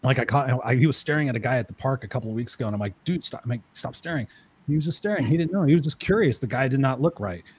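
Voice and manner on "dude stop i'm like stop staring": hushed parental warning. Retold or imitated. Parent covertly warns staring son.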